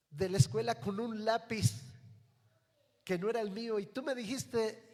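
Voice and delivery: shouted high and loud, full of blame; furious yelling. Retold or imitated. Condemned son shouting at his mother, furious yell. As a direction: scream the accusation at her through the bars. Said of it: "y le empieza a gritar".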